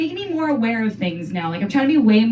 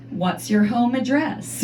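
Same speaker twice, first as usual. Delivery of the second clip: slow, mock-professional question; job interviewer; much slower than usual. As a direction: ask it slowly, like a mock interviewer. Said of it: "like I'm going to a job interview".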